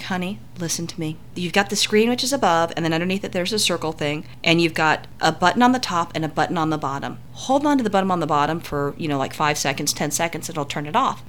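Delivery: soft, patient explaining to a panicked partner; calm coaxing. Retold or imitated. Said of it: "trying to stay calm".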